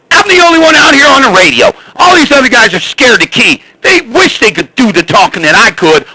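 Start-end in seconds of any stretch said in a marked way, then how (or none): 0.1-3.6 boastful shout. Real, not acted. Bragging on the CB.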